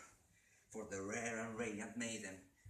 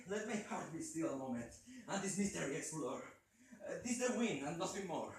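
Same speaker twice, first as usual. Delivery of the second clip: higher and louder, pressing; raised voice; 7 semitones higher, 5 dB louder than usual. Acted. Man talking himself calm about the tapping, raised. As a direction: speak up to steady himself. Narrator reassures himself aloud.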